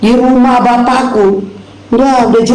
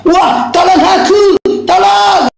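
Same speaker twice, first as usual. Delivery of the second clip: mockingly whining a slow, higher plea then yelling; hammed-up panicked call for help; mock cry for help; 4 semitones higher, much slower than usual. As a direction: imitate the rival begging for rescue. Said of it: "Minta bantuan dari dia".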